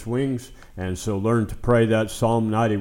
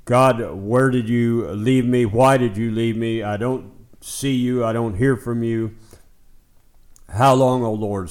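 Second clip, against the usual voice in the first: louder, pressing complaint to God; a touch of angry demand, louder; mock angry outcry; 3 dB louder than usual. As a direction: pretend to shout your frustration at God. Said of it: "you want to get angry and say".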